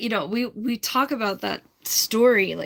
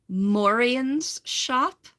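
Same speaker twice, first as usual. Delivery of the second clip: attempted British accent; 4 semitones higher, much slower than usual. Shown as a demonstration. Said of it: "I wish I could say that with a British accent".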